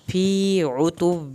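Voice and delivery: عتو from the throat, waw doubled; slow chanted phrase; throaty ain. Shown as a demonstration. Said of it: "عین کو حلق سے پڑھنا ہے".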